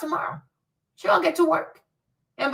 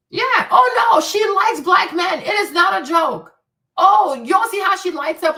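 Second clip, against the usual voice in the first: excited outburst; 6 semitones higher, 6 dB louder than usual. Real, not acted. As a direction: burst out with glee at the discovery. Gleeful realisation about Candace.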